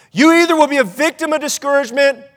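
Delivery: slightly lifted, suspended first option. Real, not acted. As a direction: hold the pitch up and leave the choice hanging. First half of either-or choice.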